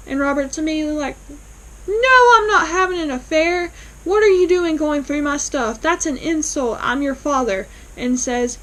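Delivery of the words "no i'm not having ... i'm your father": loud, indignant father's denial, pitched up; outraged denial. Retold or imitated. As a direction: bristle and deny it hotly, voice jumping up. Father denies affair, outraged.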